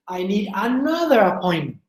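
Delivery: ANOTHER lifted and lengthened within the sentence; stress on ANOTHER. Shown as a demonstration. Teacher shows she already had one, stressing ANOTHER. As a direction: lean on "another" as the key word. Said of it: "That's why you say "another".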